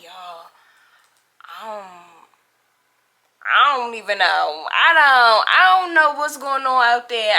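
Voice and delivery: hushed at first, then a teary near-cry; frightened, close to tears; scared and shaken. Retold or imitated. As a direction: tell your friends you have no idea, voice breaking. Scared reply to friend on phone.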